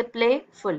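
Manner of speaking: "प्लेफुल" as two parts, प्ले and फुल; syllable division. Shown as a demonstration. Teacher pointing out two syllables, split "प्लेफुल". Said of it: "इस syllable में और इस syllable में".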